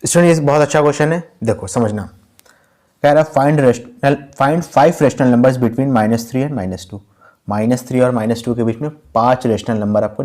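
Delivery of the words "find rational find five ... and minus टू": slow dictation. Shown as a demonstration. Teacher reads the question aloud.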